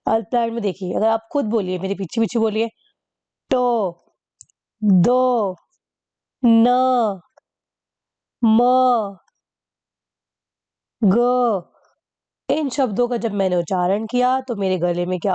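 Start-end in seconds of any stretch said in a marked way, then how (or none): 3.5-11.6 each sound pushed out hard and loud from the throat; forceful from the throat. Shown as a demonstration. Teacher demonstrating to students, forceful throaty sounds. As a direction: punch out टो, दो, न, म, ग with heavy breath force. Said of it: "मेरे गले ने बहुत जोर से इन शब्दों का उच्चारण किया".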